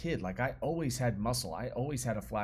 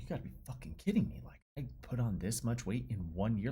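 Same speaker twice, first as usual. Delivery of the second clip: angry disbelief. Retold or imitated. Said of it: "kinda angry".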